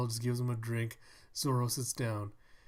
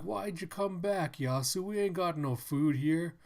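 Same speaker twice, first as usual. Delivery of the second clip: townsman voice; 5 semitones higher, 4 dB louder than usual. Pretend. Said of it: "He's like".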